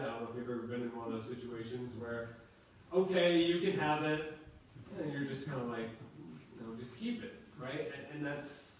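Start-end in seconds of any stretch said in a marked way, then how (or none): 2.9-4.4 mock reluctant giving, raised and louder; put-on grudging consent, pitched up; grudgingly. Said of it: "grudgingly, like". 6.8-7.3 high, softer mock-grudging aside; put-on unwillingness, small high voice; grudgingly. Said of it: "grudgingly, like".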